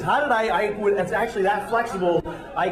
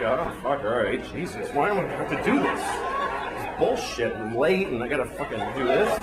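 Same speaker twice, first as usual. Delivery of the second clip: grumbling traveller; 6 semitones lower than usual. Pretend. Late traveller forced to join in, low grumble. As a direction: mutter your complaints under your breath. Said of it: "I'm like".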